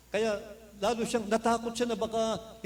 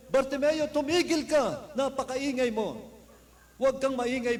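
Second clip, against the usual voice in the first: angry hushing; 4 semitones higher than usual. Retold or imitated. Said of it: "nagalit ang mga tao".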